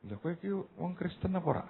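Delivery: mild Javanese-style teasing question, said softly. Retold or imitated. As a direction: poke fun at him in Javanese. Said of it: "saya bilang". (logat Jawa yang menggoda, pelan)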